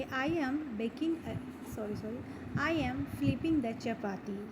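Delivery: slow, deliberate teacher model sentence. Shown as a demonstration. Teacher modelling a sentence slowly for learners. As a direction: say it slowly so students can repeat. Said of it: "तो हम बोलेंगे".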